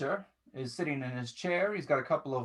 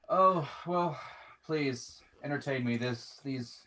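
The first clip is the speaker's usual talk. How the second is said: amused master voice. Acted. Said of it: "and he goes".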